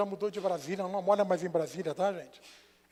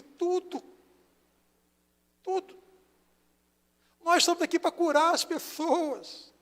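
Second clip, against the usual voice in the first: impassioned preaching; 8 semitones higher, 5 dB louder than usual. Real, not acted. Pastor's impassioned answer.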